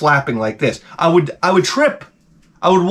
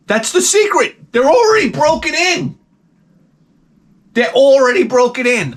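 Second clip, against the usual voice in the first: high, insistent, triumphant pitch; excited revelation; 9 semitones higher than usual. Real, not acted. Comic revealing his eBay boot secret, triumphantly excited. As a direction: announce it high like a great discovery.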